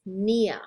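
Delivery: "Nia" starting straight on N, drawn out slowly; silent P. Shown as a demonstration. Teacher showing students P before N, silent P. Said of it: "you don't pronounce the P, it's just".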